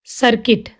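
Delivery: सर्किट ending in "kit" with short i; silent U. Shown as a demonstration. Teacher showing learners the word, सर्किट with silent U. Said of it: "सर्किट नहीं".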